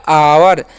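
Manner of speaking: "आवर" as आव plus र; teacher's model of "आवर"; demonstrated pronunciation. Shown as a demonstration. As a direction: draw out "आवर" with an audible final र. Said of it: "और आर का र".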